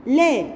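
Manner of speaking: short clear la with fatha; the letter sound la. Shown as a demonstration. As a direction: say la crisply. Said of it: "لام عليها فتحة تتنطق لا".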